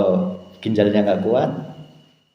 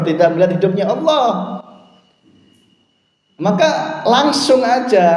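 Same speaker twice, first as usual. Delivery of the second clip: preaching at full force; 8 semitones higher than usual. Acted. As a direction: urge the congregation to make amends. Preacher raises voice to exhort. (khotbah berapi-api, nada tinggi dan keras)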